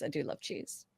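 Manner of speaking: soft unvoiced whisper. Real, not acted. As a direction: whisper it like a confession. Whispered confession.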